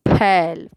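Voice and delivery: फैल with an open ɛ; ai vowel. Shown as a demonstration. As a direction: say फैल opening the ऐ wide. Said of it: "मात्रा का अंतर आपको समझ में आए".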